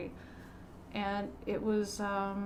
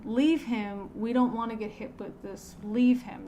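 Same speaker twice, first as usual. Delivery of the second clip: retold yell; 4 dB louder than usual. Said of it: "was yelling".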